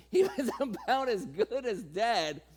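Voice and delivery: slow, chuckling through the words; laughing retelling. Shown as a demonstration. Preacher amused by old Abraham, chuckling slowly. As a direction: savour the joke slowly.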